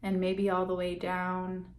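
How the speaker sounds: calm meditation guide with long, settling pauses; guided meditation. Real, not acted. Guide leading listeners to check in on breath and body, guided meditation. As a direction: ease listeners inward, leaving space between phrases.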